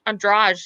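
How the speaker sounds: Andrade said "on-DRAHZH"; soft G ending. Shown as a demonstration. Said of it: "There's no G".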